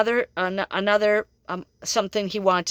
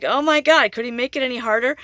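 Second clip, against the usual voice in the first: higher and quicker, hammed-up complaint; mock exasperation; 4 semitones higher than usual. Reader complaining to the joking spirit, mock exasperated. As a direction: throw up your hands in jest. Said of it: "I'm like".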